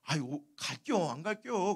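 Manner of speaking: slow, hesitant Chungcheong impression; evasive Chungcheong dialect. Chungcheong local dodging a revival invitation, evasive dialect. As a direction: stall politely in Chungcheong dialect. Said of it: "그러면 충청도 사람들은".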